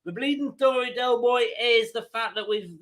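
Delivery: half-hearted Irish lilt; attempted Irish accent. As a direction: have a rough go at an Irish accent. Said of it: "I can't do an accent".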